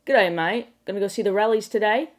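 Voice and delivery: lightly put-on Aussie accent, a bit loud; hammed-up Aussie greeting; mock Australian slang. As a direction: imitate an Australian saying g'day. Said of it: "what Australian slang sounds like".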